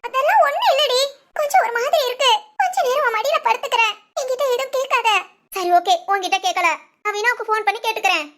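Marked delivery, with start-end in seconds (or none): 0.1-5.1 teary, choked-up voice through sobs; crying. Acted. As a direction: hold back tears while speaking. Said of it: "அப்புறம் எதுக்கு அழுகுற". (அழுகையுடன்)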